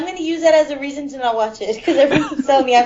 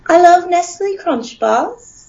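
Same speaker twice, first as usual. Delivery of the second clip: gentle, slow British accent, slightly raised; drawn-out, delicate British impression; soft British accent; 5 semitones higher, slower than usual. Shown as a demonstration. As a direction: try a soft, genteel British voice. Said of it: "Oh, very soft".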